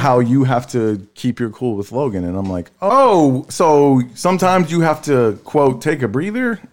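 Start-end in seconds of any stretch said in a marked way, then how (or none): 2.8-6.6 raised-pitch mock realization; retold sarcasm, high and pointed; sarcastic comeback. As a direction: throw the phrase back as a disbelieving question. Retells sarcastic comeback, quoting wife.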